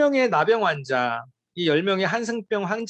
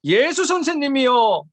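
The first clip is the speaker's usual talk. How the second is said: slow, somewhat raised plea; mildly raised cry of the lepers; 4 semitones higher, slower than usual. Retold or imitated. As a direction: call to Jesus with lifted voice. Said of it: "큰 소리로 막 외치는 거죠".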